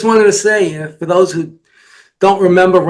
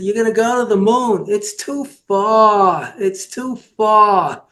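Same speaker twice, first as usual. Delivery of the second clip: imitated Jewish accent, slightly higher, words drawn out; 3 semitones higher, slower than usual. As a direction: stretch the complaint slowly in a mock Jewish accent. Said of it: "the guy with the Jewish accent".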